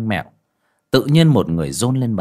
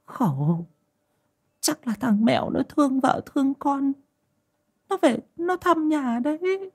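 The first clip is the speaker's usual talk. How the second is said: reassuring. A narrator's reading. Mother-in-law calming her frightened daughter-in-law, reassuring. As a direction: soothe in a thin, very high old woman's voice. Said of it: "Bà Núi trấn an".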